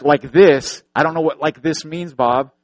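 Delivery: loud, exasperated comeback, retold; mock exasperation, punched at the start; frustrated retort. Clueless guide answering blind friend, retold frustration. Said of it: "I'm getting frustrated".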